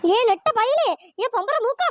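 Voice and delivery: loud calling out after him; angry yell. Acted. Wife on the scooter yelling at her fleeing husband, angry. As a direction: yell at the tall fellow to stop.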